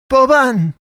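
high, loud desperate call; anguished shout; crying out. A narrator's reading. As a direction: cry the name out in alarm. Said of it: "I cried out".

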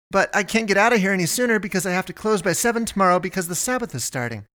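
high, fast frazzled rant; harried shopkeeper. A narrator's reading. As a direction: rattle off all the chores, overwhelmed. Melinda rants about being busy.

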